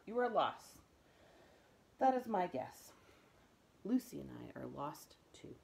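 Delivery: a kind tramp declaring it; big bearded man. Acted. Voice of Bull.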